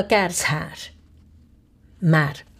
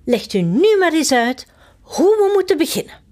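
high queen voice; 8 semitones higher, faster than usual. Acted. Queen asks the footman how to quarrel, high eager voice. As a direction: play the chirpy queen, pitched way up.

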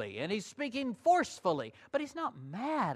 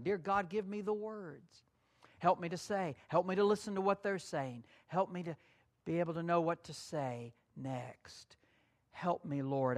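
softer, humble asking for guidance; quiet prayer; 5 dB quieter than usual. Shown as a demonstration. Preacher showing the church his own soft prayer. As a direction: murmur it like a private prayer. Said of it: "I speak to the Lord when I'm talking".

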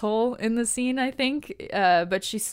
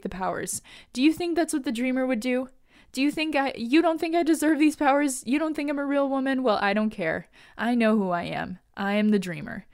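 snapping; 3 semitones higher than usual. Retold or imitated. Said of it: "Nia snaps again".

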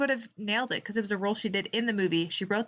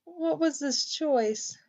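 laughing disbelief; 8 semitones higher, 3 dB louder, slower than usual. Real, not acted. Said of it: "kills me".

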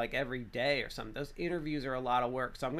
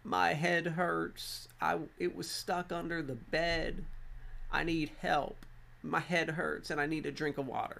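imitating crying child; 4 semitones higher than usual. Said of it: "and he's crying".

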